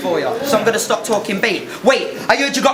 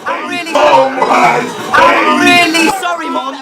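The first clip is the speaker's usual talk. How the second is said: slow, loud, higher wail; shouted apology; 4 semitones higher, 7 dB louder, much slower than usual. Pretend. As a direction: shout the sorry, dragged out. Mock apology shouted to mum.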